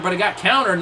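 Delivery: ordinary talk, nothing marked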